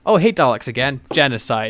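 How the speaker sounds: mock-casual repeat, dropping on the last word; mocking imitation. Host parodying the Doctor's repeated cop-out, mocking. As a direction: send up a glib routine.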